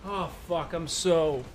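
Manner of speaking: talking through a burning mouth; words squeezed out past hot-sauce burn; mouth on fire. Real, not acted. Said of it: "my mouth is on fire".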